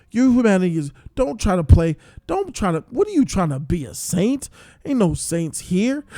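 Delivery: loud, high and indignant; outraged rant. Real, not acted. Viewer scolding the TV hero, loud high outrage. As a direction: scold him like he's in the room. Ranting at the character on screen.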